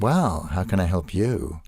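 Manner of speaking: lightly camp, flamboyant greeting; a hint of a flamboyant dresser offering help; flamboyant gay guy. Flamboyant dresser greets a disguised assassin backstage, lightly camp. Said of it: "wonderful flamboyant gay guy who comes up".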